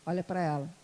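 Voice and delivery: low, calm command; lightly voiced divine instruction, unhurried; Espírito Santo. Holy Spirit instructing the reluctant preacher, low and calm. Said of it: "o Espírito Santo falou assim".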